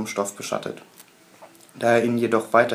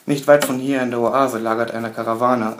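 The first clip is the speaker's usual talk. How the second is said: urgent; 5 dB louder than usual. Acted. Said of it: "drängend".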